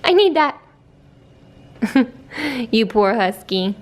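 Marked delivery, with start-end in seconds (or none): 0.0-0.6 high, whiny dog voice; voicing the dog. Voicing the husky who wants her fur back, whiny. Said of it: "She's like".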